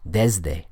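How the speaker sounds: "desde" with a buzzing Z for the S; voiced S. Shown as a demonstration. Teacher explaining the voiced S, "desde" said with Z. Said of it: "The S there is being voiced in my pronunciation".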